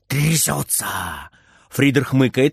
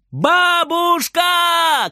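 long drawn-out high call for grandma; child's shout; much slower than usual. Acted. Frieder calling his grandma, a long high shout. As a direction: yell it across the house, stretched out slowly. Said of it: "кричит Фридер".

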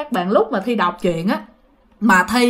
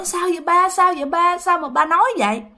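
higher-pitched, mildly tearful imitation; retold tearful question; 8 semitones higher than usual. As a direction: plead lightly as the crying daughter-in-law. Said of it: "khóc lên, mẹ hỏi". (giọng con dâu hỏi, hơi mếu)

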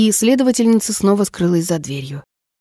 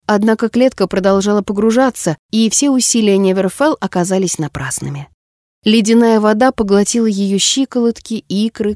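plain reading voice

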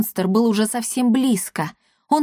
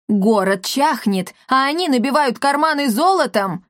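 indignant echo; 4 semitones higher than usual. Acted. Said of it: "вторил ему брандмейстер Мартихай".

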